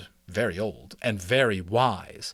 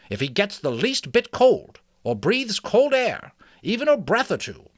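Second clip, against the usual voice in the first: put-on higher, kindly old mouse; 5 semitones higher, 4 dB louder than usual. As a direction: speak as a wise old mouse. Ages speaks.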